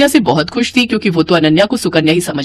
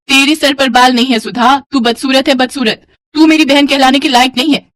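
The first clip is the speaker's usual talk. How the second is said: higher-pitched, mildly acted scorn; insulting sister; 4 semitones higher than usual. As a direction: lightly play a sister spurning her. Sister insults Sudha to her face.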